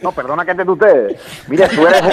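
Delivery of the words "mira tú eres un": laughing. Real, not acted. Laughing mid-sentence while insulting.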